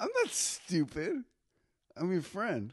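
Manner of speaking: cartoon kid voice with swooping pitch. Role-playing a conversation with a friend named Joe; Rugrats character voice. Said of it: "You're doing a character from the Rugrats".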